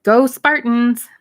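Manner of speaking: distant sports cheer, drawn out; shout. A narrator's reading. Sister yelling a team cheer down the line, drawn out. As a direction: yell it after the hanging-up phone. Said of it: "she starts to shout something".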